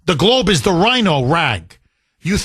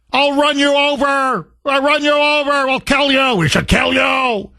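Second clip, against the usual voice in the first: high, hammed-up menacing yell; mock threats; 6 semitones higher than usual. Host acting out a protester's threats, mock shouting. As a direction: play the raging protester for the audience.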